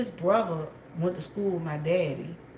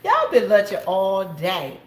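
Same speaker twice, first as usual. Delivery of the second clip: slow, laughing through the words; 4 dB louder than usual. Real, not acted. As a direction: chuckle while saying it. Laughing at herself.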